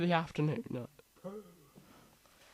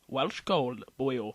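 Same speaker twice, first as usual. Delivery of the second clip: put-on Welsh accent; 4 semitones lower, 4 dB quieter, slower than usual. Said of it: "I'm not even gonna attempt that".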